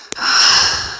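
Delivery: long breathy sigh out; heavy sigh. Real, not acted. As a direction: let out a tired heavy sigh. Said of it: "sorry about my breathing".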